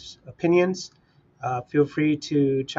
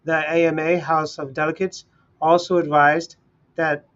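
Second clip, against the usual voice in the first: news article read; 2 semitones higher than usual. Acted. Streamer reading a news article aloud to his live chat, in a news-read style. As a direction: read it out like a news anchor to your listeners.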